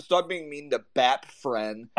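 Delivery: put-on slow, hushed baby-talk quote; mock baby talk again. Repeating the rival's exact words verbatim, slow mock baby talk. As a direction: drag it out like a sulky toddler. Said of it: "Those are his words, like, verbatim".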